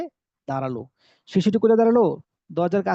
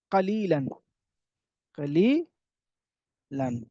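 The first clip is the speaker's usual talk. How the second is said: কালিলান stretched very slowly; দীর্ঘ টেনে বলা কালিলান; drawn-out word; 3 semitones lower, much slower than usual. Shown as a demonstration. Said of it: "teacher drawing out word". (কালিলান শব্দটি খুব ধীরে টেনে উচ্চারণ)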